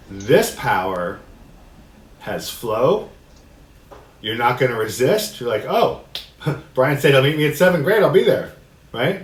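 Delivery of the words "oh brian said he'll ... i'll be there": breezy and happy. Pretend. Easygoing acceptance, voiced happily.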